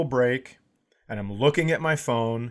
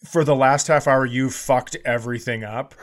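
quoting the yell; 4 dB louder than usual. Retold or imitated. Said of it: "I would rather you yell".

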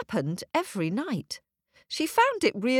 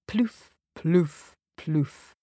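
soft knocking sounds; 2 semitones lower, much slower than usual. A narrator's reading. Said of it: "three soft knocks at the door".

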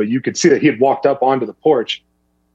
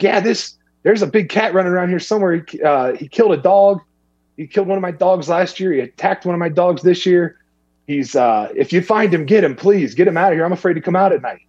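neighbor woman voice; 6 semitones higher than usual. Retold or imitated. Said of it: "She's like".

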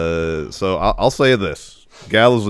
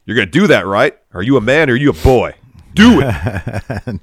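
egging on; 5 semitones higher, 9 dB louder than usual. Retold or imitated. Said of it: "she turns to Dom and says".

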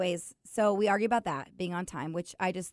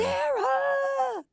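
sharp, much higher shout of the name; calling out Sarah; 5 dB louder than usual. Acted. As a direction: yell her name across the house. Calling out to her husband.

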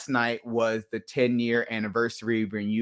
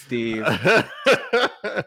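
laughing; 4 semitones higher, 4 dB louder than usual. Real, not acted. Laughing confession.

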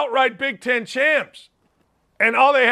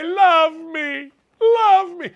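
mocking plea; 6 semitones higher, much slower than usual. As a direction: tease Coach K with a needy, rising love me. Mocking Coach K's farewell tour.

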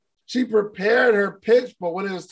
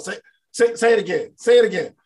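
mock challenge; 3 semitones higher, 4 dB louder than usual. Daring the mirror image.

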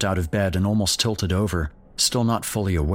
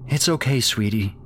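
shaky comfort; 4 semitones higher than usual. Acted. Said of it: "trembling slightly".

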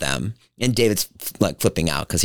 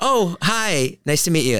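polite brush-off; 8 semitones higher, slower than usual. Retold or imitated. Flat polite mom voiced.

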